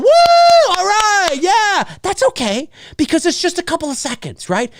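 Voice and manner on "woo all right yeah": high, loud whoop then settle; a quick happy whoop; brief cheer. Retold or imitated. Moviegoer reacting briefly to a cool moment, high whoop. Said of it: "it's okay to respond".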